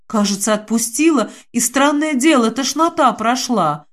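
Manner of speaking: ordinary delivery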